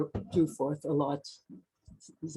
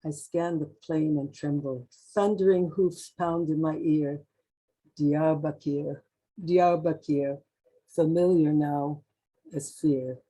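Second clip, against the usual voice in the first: measured, deliberate poem reading; poetry reading. Acted. Poet reading a poem of travel to an audience, measured recital. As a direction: recite it line by line, with pauses. Reads own poem aloud.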